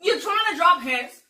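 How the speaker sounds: squealing high and loud through laughter; laughing disbelief. Real, not acted. Laughing retelling.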